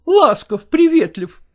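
sneering repeat of his boast; mocking echo. Wife mocking husband's claim of tenderness, scornful. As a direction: throw his own words back at him scornfully. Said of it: "я-то с тобой и ласков".

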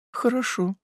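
faint high whisper of a reply; barely audible. A narrator's reading. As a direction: breathe it out, barely heard. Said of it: "чуть слышно прошептала".

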